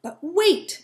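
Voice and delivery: high, loud plea to stop; exclaiming. Acted. Squirrel begging the bird to stay, high and loud. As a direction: call out to keep the bird from leaving. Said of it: "exclaimed Squirrel".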